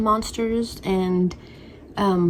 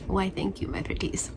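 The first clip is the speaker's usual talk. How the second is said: witchy thanks; 7 dB quieter than usual. Pretend.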